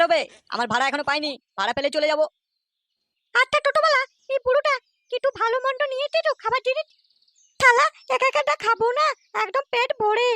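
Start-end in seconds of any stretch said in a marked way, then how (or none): 3.3-10.3 high, put-on old man's voice; a miserly old man calling out to the driver; stingy old man voice. Old man calls out to the toto driver in a raised voice.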